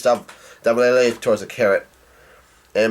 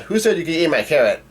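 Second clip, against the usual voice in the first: mild mock outrage, pitched up; Carrot's angry yell; 4 semitones higher, faster than usual. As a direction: put on a light indignant outburst. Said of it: "and she gets angry".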